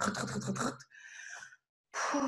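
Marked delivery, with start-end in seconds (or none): 0.1-0.9 soft rocking sounds. Shown as a demonstration. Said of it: "ganz leichtes Wiegen".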